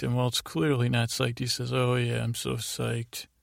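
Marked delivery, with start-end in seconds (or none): 1.7-3.3 numb. Retold or imitated. Walt to Jesse, numbly faking excitement. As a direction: let the enthusiasm drain out, barely there. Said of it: "Walt almost seems numb".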